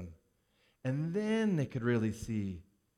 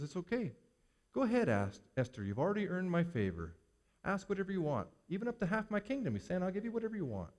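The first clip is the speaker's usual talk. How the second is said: softer, higher, generous invitation; gentle king; 5 semitones higher, 3 dB quieter, faster than usual. Acted. King to Esther at the banquet, gentle and inviting. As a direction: coax her kindly to ask.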